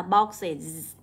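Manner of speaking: "boxes" slowly, with a clear -iz ending; âm đuôi /iz/. Shown as a demonstration. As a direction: let "boxes" end in a long buzzing iz. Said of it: "cũng là âm đó luôn". (đọc chậm "boxes", đuôi iz rõ)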